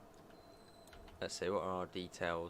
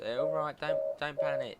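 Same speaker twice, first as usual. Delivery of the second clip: louder, rushed and flustered over a blaring alarm; scrambling to shut off the buzzer, half laughing at himself; flustered panic; 7 semitones higher, 6 dB louder than usual. Real, not acted. Alarm buzzer won't stop.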